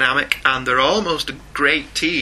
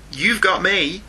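Superman movie quote; 7 semitones higher than usual. Retold or imitated. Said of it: "nobody says".

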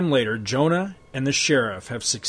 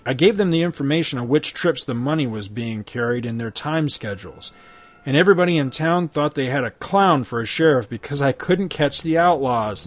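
louder, smug turncoat lawman; sneering sheriff; 3 dB louder than usual. Acted. Crooked sheriff holding Hex at gunpoint, smug. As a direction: lord it over him.

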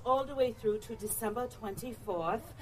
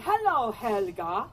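slow German-accented "Hello, Helga" to repeat; German accent demo; 5 dB louder, slower than usual. Shown as a demonstration. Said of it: "you must say it like you are in Germany".

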